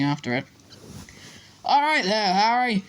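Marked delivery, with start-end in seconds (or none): 1.6-2.8 high-pitched call, little extra volume; mild yell. A narrator's reading. Fred calling to Harry mid-game, mild yell. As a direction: call it out brightly from a distance. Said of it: "he had time to yell".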